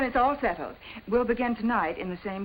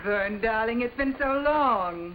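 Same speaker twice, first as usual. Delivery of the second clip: sultry vamp; 3 semitones higher, slower than usual. Acted. Vamp greeting her old flame.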